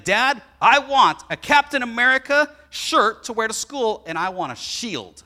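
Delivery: imitating his son pleading for a shield; eager kid voice. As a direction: beg like an excited little boy. Father voices excited son asking.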